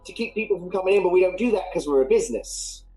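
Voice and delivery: Cockney barmaid explaining the fences; slipping Cockney accent. Acted. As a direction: barmaid whose accent wanders into Irish or Scottish. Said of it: "she's becoming Irish".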